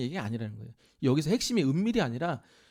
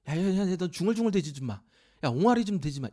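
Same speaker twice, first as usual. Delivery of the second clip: mock-rude brush-off, like shooing a pest; dismissive scolding. Shown as a demonstration. Preacher voicing Jesus belittling babblers, dismissive scold. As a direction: scold them for babbling, a bit contemptuous. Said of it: "이런 뜻, 이런 뉘앙스예요".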